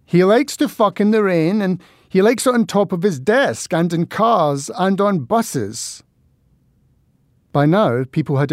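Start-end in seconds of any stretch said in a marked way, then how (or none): 0.1-6.0 hysterical and mean. Acted. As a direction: taunt him, shrieking with spite. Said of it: "Her voice sounded hysterical and mean".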